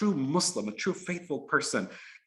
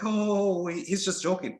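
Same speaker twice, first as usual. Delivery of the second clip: higher, drawn-out mock-drunk "oh"; drunk minister; 5 semitones higher, slower than usual. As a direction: lightly play a tipsy man brushing it off. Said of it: "they're drunk and whatever".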